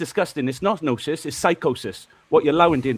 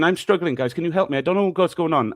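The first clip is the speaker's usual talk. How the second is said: softer, sarcastic pleading to the panel; mock helpless plea; 3 semitones lower, 6 dB quieter than usual. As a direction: play the helpless victim with a quieter voice. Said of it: "I'm saying".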